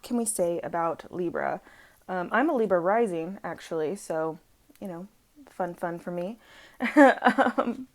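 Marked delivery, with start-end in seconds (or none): 5.5-6.4 slightly sarcastic, softer aside; unintentionally sarcastic. Real, not acted. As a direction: say it a little drily, as if not quite meaning it. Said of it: "I probably sounded sar-, more sarcastic".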